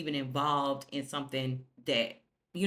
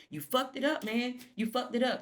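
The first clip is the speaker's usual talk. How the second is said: squeaky high mock of Sally; a whiny high parrot of the scolding; 7 semitones higher than usual. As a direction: pitch it way up to mock him. Voicing Sally, mocking.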